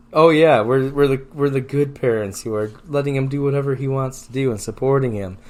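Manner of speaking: self-satisfied mock parent; smug parent voice. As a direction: play the proud smug parent. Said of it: "those parents that are like".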